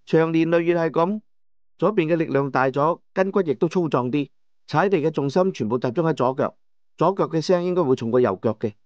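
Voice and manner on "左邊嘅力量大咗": ordinary delivery, nothing marked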